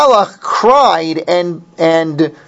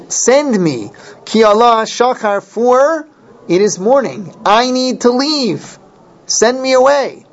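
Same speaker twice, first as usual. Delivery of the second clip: the angel begs to be let go at dawn; pleading angel; 6 semitones higher than usual. Retold or imitated. Teacher voicing the angel begging Yaakov, pleading and higher.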